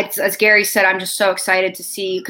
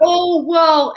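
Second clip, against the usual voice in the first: retold reply; 9 semitones higher, 5 dB louder than usual. Retells brother's reply to her demand.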